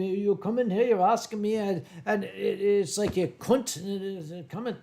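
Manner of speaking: imitated Scottish rant; Glaswegian accent. Scottish friend berating a visitor, imitated Glaswegian grumble. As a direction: Glasgow accent, falling away into muddle. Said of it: "He's from Glasgow".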